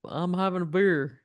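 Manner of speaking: British try with a German twist; a bad British accent, half German. Cohost retrying a British accent with German creeping in. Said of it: "a little German that came through".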